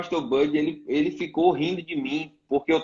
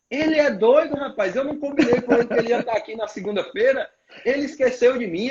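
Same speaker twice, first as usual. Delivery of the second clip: higher, indignant ranting pastor; mock outrage; 5 semitones higher than usual. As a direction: imitate the pastor fuming at him. Pastor ranting about him. (indignação imitada, voz mais aguda)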